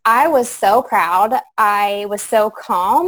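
slow, smiling, proud; proud and calm. Real, not acted. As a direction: savour each word slowly. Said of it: "you are smiling ear to ear talking about it".

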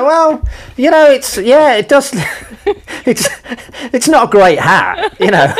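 high-pitched, hedging imitation of friends; squeaky, hesitant tact, hammed up; mock reluctant. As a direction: break bad news haltingly in a high voice. Voices friends' reluctant verdict on hat.

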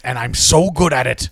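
Liam Neeson threat. Pretend. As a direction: promise violence coolly. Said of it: "Get us some more Liam Neeson".

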